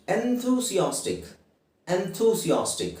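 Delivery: enthusiastic drawn out syllable by syllable, slowly; slow careful demo. Shown as a demonstration. Teacher modelling a word for students, slow careful pronunciation. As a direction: spell out enthusiastic slowly for learners. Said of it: "ಹೇಳಿ, enthusiastic".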